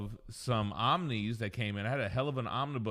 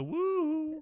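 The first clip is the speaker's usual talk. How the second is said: duck voice. Pretend. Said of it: "I wish I could do a duck voice".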